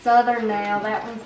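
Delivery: lively Southern US English; Southern accent. Shown as a demonstration. Child recalls schoolwork for family, Southern accent. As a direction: chatter away in a Southern accent. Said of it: "Uh, Southern".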